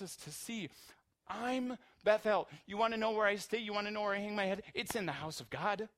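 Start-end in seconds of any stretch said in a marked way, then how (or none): 1.3-5.9 impassioned Jesus voice. Retold or imitated. Preacher voicing Jesus to his friends, loud and impassioned. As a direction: proclaim it as if revealing yourself. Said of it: "what Jesus really wants".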